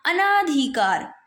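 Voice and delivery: अनाधिकार drawn out slowly with naa; अनाधिकार as a-naa-dhi-kaar; wrong long aa. Shown as a demonstration. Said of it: "अना नहीं होता".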